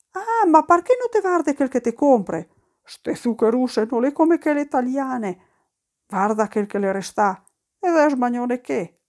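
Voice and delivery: mock-furious wife yelling at him; a hammed-up angry rant; shouting at husband. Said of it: "gli gridò".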